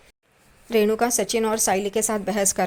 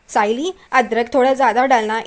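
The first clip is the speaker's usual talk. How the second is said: louder, sarcastic echo of her order; a mock parroting of the sister-in-law's order, louder; mocking imitation; 5 dB louder than usual. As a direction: throw her words back at her mockingly. Sachin mocks Roshni's request.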